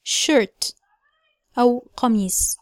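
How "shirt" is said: shirt with lips slightly rounded; rounded vowel in shirt. Shown as a demonstration. Teacher modelling shirt for learners. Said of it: "نفس الصوت الموجود في كلمة".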